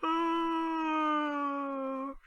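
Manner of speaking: a long, high sleepy yawn; drawn-out yawn. A narrator's reading. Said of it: "I yawned again".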